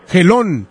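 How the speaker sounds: "Gelón" with the stress on the O; "Gelón" stressed at the end; stress on final syllable. Shown as a demonstration. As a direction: land on the last syllable of "Gelón", closing on the N. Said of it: "con acento en la O y la N al último".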